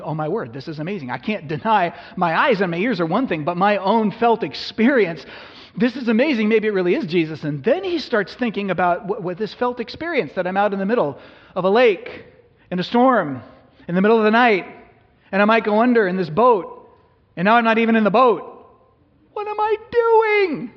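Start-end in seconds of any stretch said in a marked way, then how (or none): 0.0-7.4 rising, louder wonder as Peter walks; building from hushed awe to loud excitement; amazed Peter. Acted. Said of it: "and he's going". 10.3-18.4 higher, louder, faster with each phrase; rising panic. Acted. Peter panicking in storm. 19.3-20.7 very high, slow, frightened cry; a shrieking cry of panic; panicked squeal. Acted. Peter panics on water.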